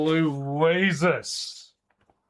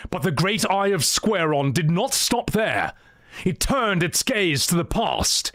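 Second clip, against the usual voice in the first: epic fantasy narrator; 3 semitones higher than usual. Acted. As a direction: tell it like an ancient legend. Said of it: "think of the opening of Lord of the Rings".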